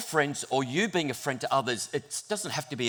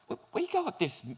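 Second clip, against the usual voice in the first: dismayed surprise; 5 dB quieter than usual. Retold or imitated. Rob reading the race map, alarmed surprise. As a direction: gulp as you spot the climb.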